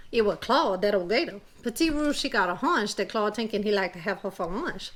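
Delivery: storytelling in an imitation Cajun accent. Telling kids a Cajun tale in a Cajun accent. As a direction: read it like a Louisiana Cajun teller. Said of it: "my imitation Cajun accent".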